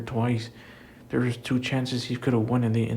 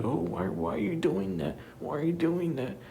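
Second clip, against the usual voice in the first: high, softened mock-referee voice; 7 semitones higher, 4 dB quieter than usual. Wrestling fan mimics the referee questioning Drew, high mock voice. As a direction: imitate the referee's questioning, pitched up and quieter. Acted quote of fussing referee.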